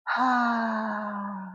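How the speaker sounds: long, soft emotional sigh; tearful sigh. Real, not acted. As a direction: let out a long sigh to hold back tears. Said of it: "Don't make me cry".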